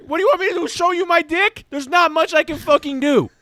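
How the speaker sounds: high, indignant complaint; exasperated retort. Real, not acted. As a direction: protest an impossible demand, worked up. Challenged to prove he is real.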